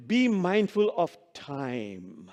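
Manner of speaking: slow, laughing quote. Real, not acted. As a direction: savour it with a chuckle. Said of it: "It really says that".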